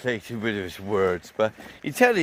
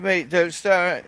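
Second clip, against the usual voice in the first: slow warning; 5 semitones higher, slower than usual. Retold or imitated. Warning the aggressive bloke.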